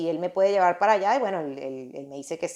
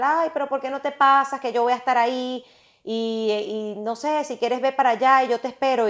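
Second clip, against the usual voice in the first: friend's coaxing invitation; 5 semitones higher than usual. Retold or imitated.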